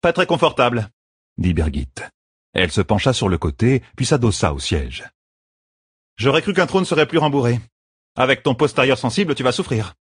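high, teasing banter; teasing bodyguard. Acted. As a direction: tease the queen. Birgit teases on throne. (taquinerie de garde du corps)

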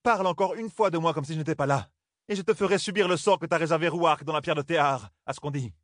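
high-pitched indignant retort; indignant outcry. Acted. Aiel maiden, indignant, lashing back at the first lady. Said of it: "s'écria Souline".

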